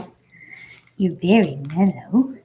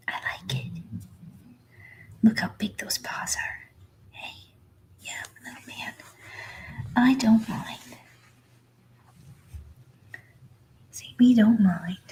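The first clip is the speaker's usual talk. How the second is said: whispered puppy voice; 4 dB quieter than usual. Pretend.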